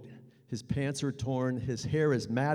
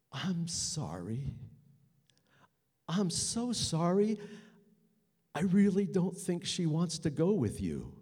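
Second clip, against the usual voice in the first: nervous apology; 5 semitones higher than usual. Retold or imitated. Apologising to the attacker.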